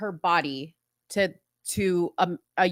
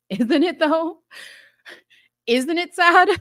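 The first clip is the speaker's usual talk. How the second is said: sarcastic mock sympathy; 6 semitones higher, 5 dB louder than usual. Mocking the sad piano music.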